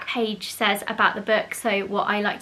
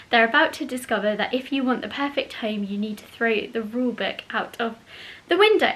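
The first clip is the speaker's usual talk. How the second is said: reading the blurb. Acted. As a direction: read the back cover aloud. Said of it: "So the back page says".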